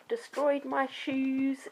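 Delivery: mock whine.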